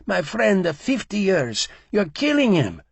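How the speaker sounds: loud, high, broken crying scream; blubbering scream. A narrator's reading. Barber wailing over his friend of fifty years, loud and high. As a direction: wail for his old friend. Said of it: "began blubbering in broken English".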